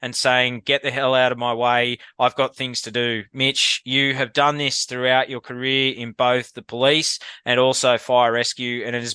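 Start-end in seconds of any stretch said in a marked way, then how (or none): 0.0-3.2 quote read out. Shown as a demonstration. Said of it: "The quote is".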